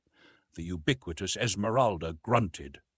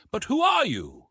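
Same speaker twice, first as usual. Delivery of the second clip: higher, louder insistent question; insisting; 13 semitones higher, 6 dB louder than usual. A narrator's reading. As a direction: press him for an answer. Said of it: "insisted Clayton".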